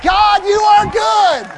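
high, long-held full-voice cry; exultant praise shout. Retold or imitated. Pastor praises God after hearing of the healing, exultant shout. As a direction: belt it out slowly to heaven.

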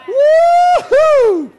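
very high, loud whoop; heavenly cheer. Retold or imitated. All of heaven cheers a new walker, loud whoop. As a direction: cheer like the whole stadium. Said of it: "all of heaven are like".

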